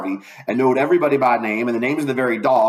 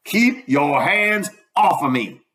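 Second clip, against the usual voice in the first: angry doctor; 3 semitones higher, slower than usual. Acted. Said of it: "says the doctor".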